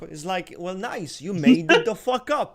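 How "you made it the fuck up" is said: usual speaking voice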